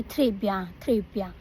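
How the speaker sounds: "Très bien" with an English-accented R. Shown as a demonstration. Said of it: "I used to say".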